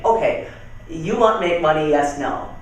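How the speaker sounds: lightly imitated foreign-accented broken English; mock foreign accent, matter-of-fact. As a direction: put the blunt question in a foreign accent. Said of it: "as I do the accent".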